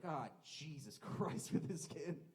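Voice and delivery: slow, drawn-out groan of exasperation; exasperated passengers. Acted. Fellow passengers reacting to Jonathan, exasperated. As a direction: groan it slowly, fed up. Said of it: "And the train's like".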